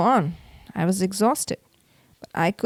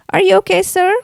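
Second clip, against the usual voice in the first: higher, louder caring staff voice; museum staff member asking; 8 semitones higher, 6 dB louder, faster than usual. A narrator's reading. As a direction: call out to check on him. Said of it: "she asked".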